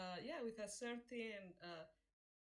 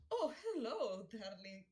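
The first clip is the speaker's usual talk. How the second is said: breathy vintage purr; 3 semitones higher, 7 dB louder than usual. Acted. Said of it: "Oh, Jesus Christ, that's, that was moves".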